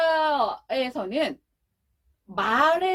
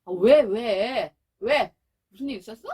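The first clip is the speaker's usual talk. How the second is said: caring parent response; 3 semitones lower, 5 dB louder than usual. Shown as a demonstration. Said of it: "보통 어떻게 말을 하죠?".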